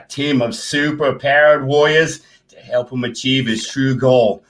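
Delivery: measured story-trailer narration; read-aloud blurb. Acted. Reading the comic blurb for the stream, measured narration. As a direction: read it out steadily, drawing out the phrase endings.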